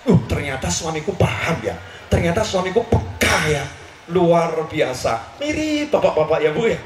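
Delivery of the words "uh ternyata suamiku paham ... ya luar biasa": touched surprise. Retold or imitated. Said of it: "Kaget Sayyidatuna Aisyah".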